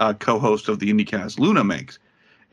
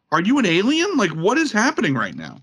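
mock baffled; 8 semitones higher than usual. Retold baffled question.

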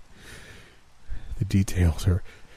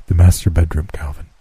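lower, measured voice of Death; Death's voice; 3 semitones lower, 5 dB louder than usual. Acted. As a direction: speak as calm, cold Death. Death answers Calvin.

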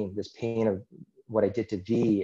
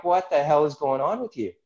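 higher-pitched mock outrage of onlookers; alarmed disbelief; 5 semitones higher, 3 dB louder than usual. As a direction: imitate colleagues taken aback. Imagined colleagues' alarmed reaction.

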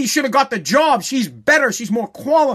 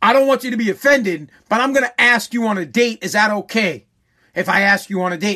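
overly polite asking; 3 semitones lower than usual. Shown as a demonstration. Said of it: "you have to start out like this".

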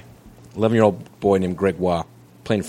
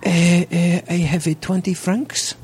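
higher, slow put-on French kid voice; French boy; 10 semitones higher, much slower than usual. Cohost playing Gregoire at the pool table, high mock voice. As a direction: play the kid answering in broken English. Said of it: "S1 plays Gregoire at pool".

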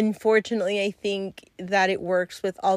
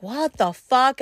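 shocked; 6 semitones higher, 5 dB louder than usual. Retold or imitated. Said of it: "and he's like".

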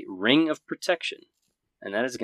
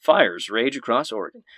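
Anderson Cooper; 3 dB louder than usual. Acted. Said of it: "let me do my best Anderson Cooper impersonation".

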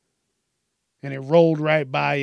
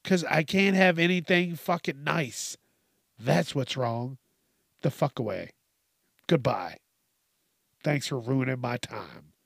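annoyed. Retold or imitated. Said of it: "straight annoyed face".

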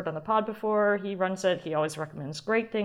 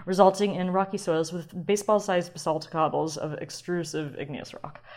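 fancy reading. Pretend. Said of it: "was that fancy enough for you".

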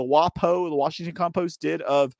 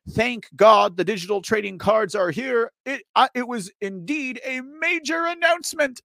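higher, louder mock enthusiasm; sarcastic; 6 semitones higher, 3 dB louder than usual. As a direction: lay the sarcasm on thick, pitched up. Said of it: "says sarcastically".

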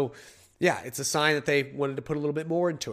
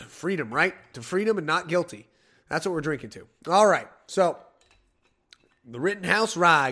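usual speaking voice

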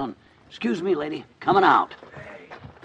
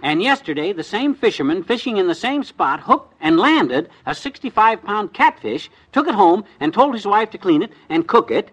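excited reading aloud; 2 semitones higher, 5 dB louder than usual. Acted. Reading item from paper.

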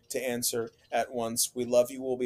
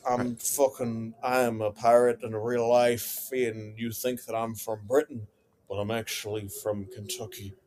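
put-on drunk Johnny Depp; 3 semitones lower than usual. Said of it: "I'm Johnny Depp".

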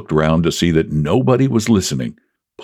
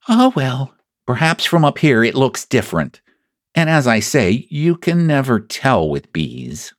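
lightly voiced storybook bear, pitched up; philosophical Pooh; 5 semitones higher than usual. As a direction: muse aloud in a slightly raised bear voice.

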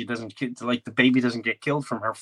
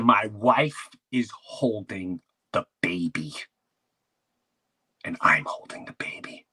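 firm insistence. Retold or imitated. Husband insisting firmly to staff.

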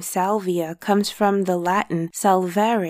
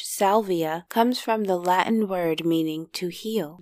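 sultry narrator; 4 dB quieter than usual. A narrator's reading. Guided sensory intro narration.

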